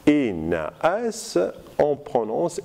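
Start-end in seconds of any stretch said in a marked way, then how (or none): 0.1-1.4 "enaas" with both vowels sounded apart; hiatus kept. Shown as a demonstration. Teacher showing two vowels meeting, "enaas" with a hiatus. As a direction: keep the two a's of "enaas" separate. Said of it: "on dit par exemple dans suite".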